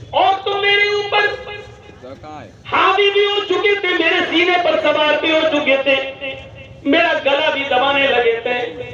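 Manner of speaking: a beaten foe asking in wonder; the enemy asking. Acted. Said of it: "کہنے لگا".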